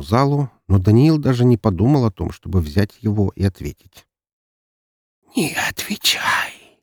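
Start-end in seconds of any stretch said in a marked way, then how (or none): 5.4-6.8 eerie breathless whisper of many voices; a chorus of shadows whispering a warning. A narrator's reading. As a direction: hiss it from the shadows, slow and ghostly. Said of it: "прошептал хор голосов из тени".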